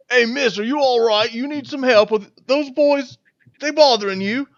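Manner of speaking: put-on a burly sailor checking on a girl; concerned sailor. Sailor asking the frightened girl if the boys bother her.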